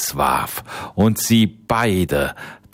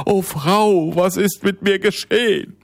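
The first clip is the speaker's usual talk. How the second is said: much higher, fast frightened plea; pleading; 13 semitones higher than usual. Acted. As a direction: cry out to her, lost and scared. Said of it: "flehte der Mann".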